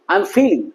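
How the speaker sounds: "feeling" with a long ee; long vowel. Shown as a demonstration. Teacher giving an example of long i, long vowel. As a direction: stretch the first vowel of "feeling". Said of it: "long ই মানে উচ্চারণটা সেরকম হবে".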